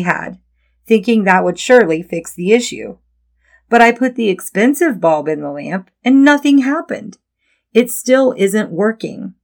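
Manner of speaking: mildly exasperated, emphatic complaint; a touch of exasperation, lightly acted; exasperated child. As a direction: lightly voice a frustrated child explaining the problem. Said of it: "your child turns to you exasperated".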